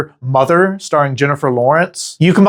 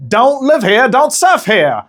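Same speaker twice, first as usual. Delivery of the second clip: a high, bad Australian accent, more gangster than Aussie; attempted Australian accent; 6 semitones higher than usual. Host impersonating hostile locals in a botched Australian accent. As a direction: taunt like a mocking Aussie local with a failed accent. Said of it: "that sounded more like nineteen twenties gangster".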